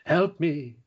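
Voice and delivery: slow, drawn-out fake cry for help; a monster faking helplessness to lure the heroes; mock pleading villain. Villain pleading to the magical girls, slow hammed-up plea. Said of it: "It's like".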